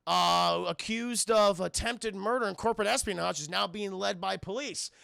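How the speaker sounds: mock news reporter. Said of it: "She says".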